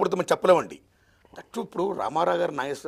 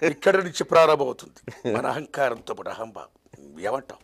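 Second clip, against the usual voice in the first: film star mimicry; 4 semitones lower, slower than usual. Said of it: "mimicry కూడా వచ్చా?".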